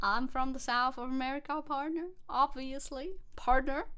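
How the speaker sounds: playful southern twang, rising on partner. Pretend. Streamer posing as an American southerner, playful southern accent. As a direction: claim southern roots in a put-on twang. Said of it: "got a little southern twang".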